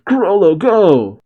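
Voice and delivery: high, drawn-out call; urging call. A narrator's reading. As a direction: send a friend running, stretching the last word. Character urging friend to run.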